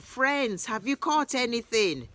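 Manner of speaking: a friendly call to the boat, pitched high; shouting out. A narrator's reading. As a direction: hail the fishermen from the shore. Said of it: "He shouts out".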